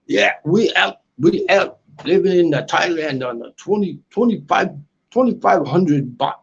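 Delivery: put-on British accent; amateur UK accent, demonstrated for the chat. Shown as a demonstration. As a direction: have another go at a British accent. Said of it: "the U K accent down there".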